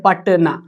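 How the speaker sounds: पटना as two beats, पट-ना, with no "a" after ट; पटना split cleanly as "pat-na"; no vowel after ट. Shown as a demonstration. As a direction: close पट on the ट, then say ना. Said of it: "टी के बाद अ नहीं है".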